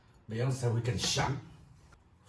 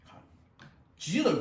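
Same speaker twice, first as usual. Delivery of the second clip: playful boast of muscles; proud exclamation; 10 semitones higher, 5 dB louder than usual. Real, not acted. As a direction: show off, loud and high.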